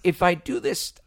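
lightly voiced Jay Baruchel, laughing. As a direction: pitch an idea, light and amused. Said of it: "you affect the voice".

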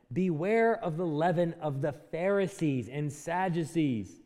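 slow, deliberate warning, each word spaced; said really slowly. Shown as a demonstration. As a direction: let the warning "Beware of the leaven" land slowly, word by word. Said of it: "he said that really slowly".

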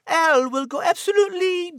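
ordinary delivery

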